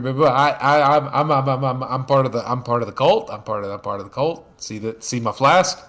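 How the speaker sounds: put-on nervous stuttering kid; lightly voiced boy stammering excuses. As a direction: trip over every word in fear. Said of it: "starts stammering".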